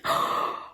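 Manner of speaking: indignant intake of breath; gasp. Retold or imitated. Storyteller outraged at paying for her date, sharp gasp. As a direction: gasp at the nerve of it.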